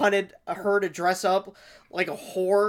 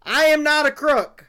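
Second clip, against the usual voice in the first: Nixon impression; 6 semitones higher, 5 dB louder than usual. Quoting Nixon after mock apology.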